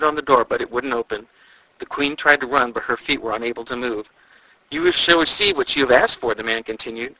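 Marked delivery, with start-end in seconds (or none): 4.7-6.3 ghostly doom voice. A narrator's reading.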